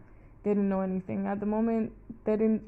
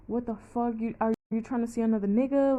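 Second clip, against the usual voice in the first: retold angry snapping; 3 semitones higher than usual. Partner snapping at her over another man, retold with mild heat. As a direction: imitate his angry accusation, mildly heated and picking up speed. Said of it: "he snapped".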